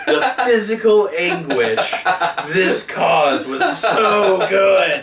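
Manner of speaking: slow words through laughter; laughing. Real, not acted. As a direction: savor it while laughing. Laughing delight at pain.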